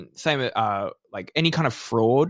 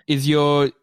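put-on accountant talking to a child; 6 semitones higher than usual. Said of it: "he has to be like".

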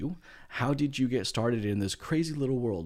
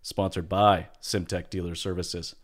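big, bright announcer intro; radio announcer voice. Pretend. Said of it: "That is my best radio announcer voice".

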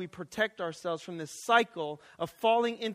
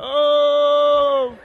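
put-on toddler voice; 6 semitones higher, 12 dB louder than usual. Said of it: "he's like".

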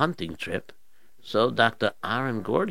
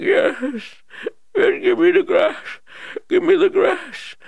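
high, loud frantic pleading; desperate old king; 7 dB louder, slower than usual. Acted. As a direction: beg for the grass like a dying king. Weak king begging.

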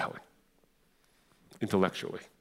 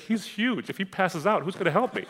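much higher, comic worried female voice; mock a tearful, panicked companion in a high pitch; imitating crying woman; 10 semitones higher, 3 dB louder than usual. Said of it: "and she's crying, 'cause she's like".

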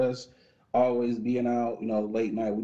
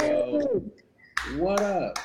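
excited greeting; 9 semitones higher, slower than usual. Real, not acted. Hype greeting.

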